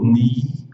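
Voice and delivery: ni with a stretched long ee vowel; ni: long ee sound. Shown as a demonstration. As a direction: hold the ee of ni long. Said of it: "que é longo".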